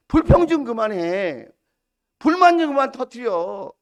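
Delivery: acted fed-up rebuke, rising in pitch; exasperated scolding. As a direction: scold the people like a worn-out leader. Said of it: "언쟁을 높이고 이렇게 싸운".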